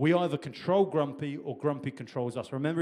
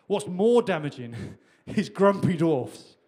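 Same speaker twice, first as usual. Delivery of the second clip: laughing through it, slow and louder; 3 semitones higher, 6 dB louder than usual. Real, not acted. Preacher to congregation, laughing at his own point. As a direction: chuckle as you land the point, slowly. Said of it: "I'm telling you".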